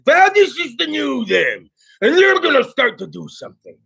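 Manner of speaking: high-pitched mocking poster voice; mock self-announcement. Imitating friends announcing the new them, high mock-proud voice. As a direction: parody a proud resolution-maker.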